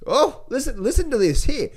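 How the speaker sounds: a sudden warning voice that leaps up; alarm bells going off. Retold or imitated. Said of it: "It's like".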